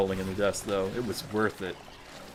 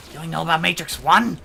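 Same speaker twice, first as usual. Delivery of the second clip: mock disbelief; 5 semitones higher, 7 dB louder, faster than usual. Mock incredulous echo of friend.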